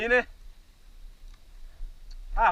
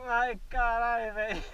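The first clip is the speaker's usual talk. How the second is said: in pain; 3 dB quieter than usual. Real, not acted. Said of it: "Deu dor".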